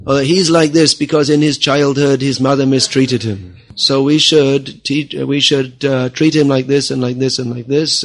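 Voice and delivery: mock psychologist. Lecturer imitating psychology readers judging a man, mock psychologist.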